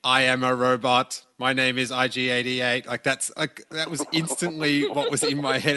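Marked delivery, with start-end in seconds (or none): 0.0-2.9 robot voice. Retold or imitated. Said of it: "I just pictured him going".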